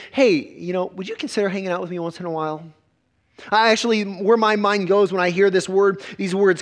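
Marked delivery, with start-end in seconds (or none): 0.1-2.6 casual invite. Retold or imitated. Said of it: "than it is".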